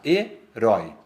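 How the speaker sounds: "herói" in two beats, "ói" held together; découpage en syllabes. Shown as a demonstration. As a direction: say "herói" with the final diphthong in one syllable. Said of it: "elas ficam na mesma sílaba".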